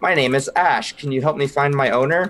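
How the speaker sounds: small, chiming clockwork-toy voice. Describing a clockwork toy the listeners pick up, then speaking as it: little chiming voice. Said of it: "a little chiming voice that says".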